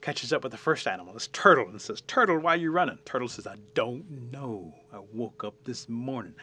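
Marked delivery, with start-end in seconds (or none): 2.0-3.0 loud, high shouted question; urgent storyteller's holler; rabbit calling out. Acted. Rabbit calls out to turtle. 3.5-6.4 slow, drawn-out turtle voice; sluggish, stretched-out reply. Acted. Turtle's slow answer in story.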